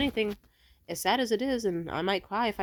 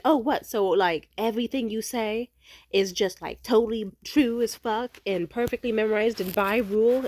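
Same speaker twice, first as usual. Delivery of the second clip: sarcastic retort; 4 semitones higher, 4 dB louder than usual. Retold or imitated. Imitating ex's sarcastic retort.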